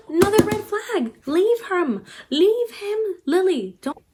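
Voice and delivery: high, loud hammed-up plea; mock alarmed outcry. Reader begging Lily to leave him, hammed-up outcry.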